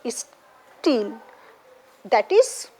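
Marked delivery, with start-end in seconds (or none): 0.1-1.1 "steel" in two parts, a pause after the opening "is"; split into syllables. Shown as a demonstration. Teacher showing where the hyphen goes, syllable by syllable. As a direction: break "steel" as is-teel, with a gap. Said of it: "you will put your syllable".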